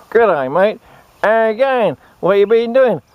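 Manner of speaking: hammed-up Australian larrikin; broad Aussie bloke. Mate greeting a mate after a few weeks, hammed-up broad Australian. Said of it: "this is how this conversation went".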